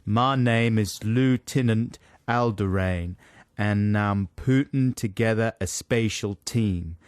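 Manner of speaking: put-on Tennessee accent. Co-host repeats the film line once accent is known, Tennessee accent. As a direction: say it as a man from Tennessee. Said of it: "That's Tennessee, that accent".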